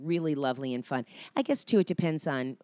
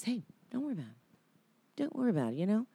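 higher, gentle soothing of a nervous actor; soft-spoken comfort, pitched up; calming reassurance; 5 semitones higher, 5 dB quieter, faster than usual. Retold or imitated. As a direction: reassure her like a kind co-star. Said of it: "he just calmed me".

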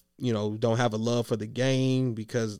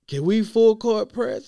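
imitating coach; 9 semitones higher, 6 dB louder than usual. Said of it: "And coach is like".

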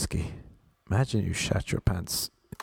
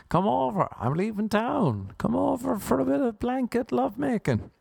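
lightly voiced flirty woman; 13 semitones higher than usual.

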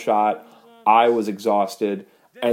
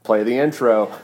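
louder, higher stage manager's cue; radio call; 3 semitones higher, 5 dB louder than usual. Retold or imitated. Crew member radios the go for the show, radio call. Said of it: "lean into his radio".

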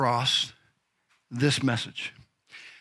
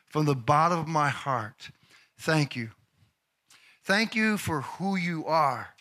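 sincere thanks. Real, not acted. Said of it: "I sincerely".

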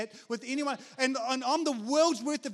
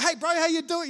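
higher, louder matey hail; friendly greeting; 5 semitones higher, 5 dB louder than usual. Acted. Surfer paddling up to guys, friendly greeting. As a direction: call out brightly to a fellow surfer.

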